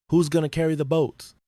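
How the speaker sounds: defiant battle roar, high and loud. A narrator's reading. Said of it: "Goggins roared into the darkness".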